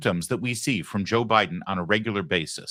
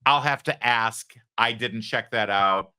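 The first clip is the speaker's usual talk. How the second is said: mock hesitant answer. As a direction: drag it out like a press secretary buying time.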